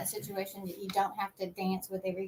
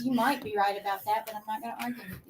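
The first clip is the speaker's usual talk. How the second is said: calm deflection; 4 dB louder, faster than usual. Shown as a demonstration. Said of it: "you can just say".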